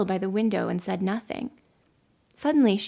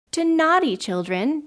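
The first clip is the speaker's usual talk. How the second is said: high, loud shocked question; astonished exclamation; 6 semitones higher, 5 dB louder than usual. A narrator's reading. Children taken aback by the girl's rule, astonished exclamation. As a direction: exclaim it in disbelief. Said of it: "they exclaimed".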